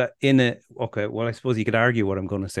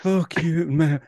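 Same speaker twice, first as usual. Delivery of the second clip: put-on failed Irish accent; 6 semitones higher than usual. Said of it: "I can't do it now".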